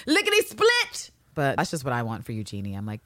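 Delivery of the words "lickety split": high squeaky exclamation. Pretend. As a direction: jump way up high and slow it down. Sing-song exclamation after laugh.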